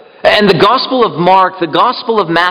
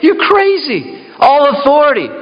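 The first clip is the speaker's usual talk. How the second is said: mock a doubter, pitched up high; incredulous scoffer; 9 semitones higher than usual. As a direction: scoff at him as if he's mad. Mocking doubters of Jesus' claim.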